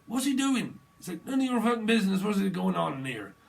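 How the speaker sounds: loud, high blokey yell; shouting. Retold or imitated. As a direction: bellow it up the ladder. Acted bloke shouting up ladder.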